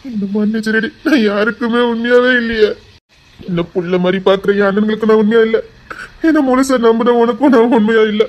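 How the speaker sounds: tearful, guilt-stricken self-blame, building in force; anguished apology. Acted. Husband begging his wife's forgiveness, anguished and tearful. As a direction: pour out the guilt, breaking towards a sob.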